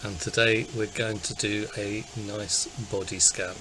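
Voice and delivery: calm, unhurried body-scan guidance; guided meditation. Acted. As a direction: guide listeners gently into relaxing, with long pauses.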